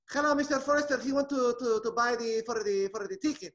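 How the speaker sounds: high, halting put-on accent; assistant Chico voice. As assistant Chico to the telemarketer, high stumbling accent. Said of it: "going back and forth with these voices".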